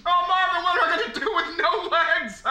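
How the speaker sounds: mock wail. Wailing about lost legs.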